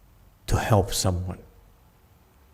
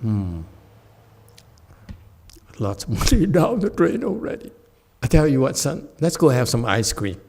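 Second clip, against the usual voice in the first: mock cheerful treat offer; 2 semitones higher, 4 dB louder than usual. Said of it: "He said".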